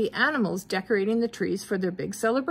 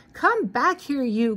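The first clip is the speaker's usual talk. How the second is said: mild cry; 4 semitones higher than usual. Acted. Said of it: "cried Professor Hinkle".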